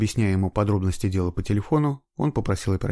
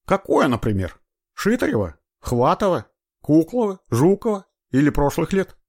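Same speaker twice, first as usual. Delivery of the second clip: disbelief; 9 semitones higher, 5 dB louder than usual. A narrator's reading. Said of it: "быстро перечислил имена убитых сыщик".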